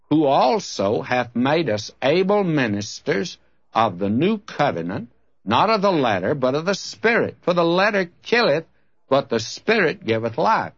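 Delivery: emphatic Bible reading with rising and falling swells; preacher's measured, stressed verse reading; Scripture reading. Real, not acted. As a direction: read the verse out to a congregation. Reads Scripture aloud to congregation.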